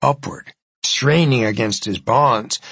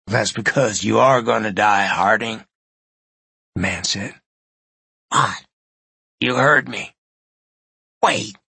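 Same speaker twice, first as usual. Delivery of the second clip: menacing villain; 2 semitones lower than usual. Acted. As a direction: savor the revenge calmly. Spider menaces dying man.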